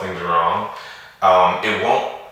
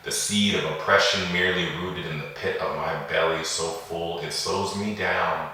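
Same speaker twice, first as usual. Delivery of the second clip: poem recitation. Acted. Poet reading a poem on racism and police brutality, measured recitation. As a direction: recite deliberately, with pauses between the lines.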